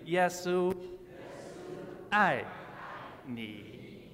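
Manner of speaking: Yesu, I, ni said one word at a time, Chinese tones; Chinese phrase. Shown as a demonstration. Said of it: "Repeat after me".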